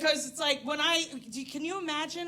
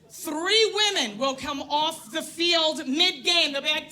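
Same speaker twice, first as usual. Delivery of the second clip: mock shout; 4 semitones higher, 5 dB louder, slower than usual. Softball players calling time.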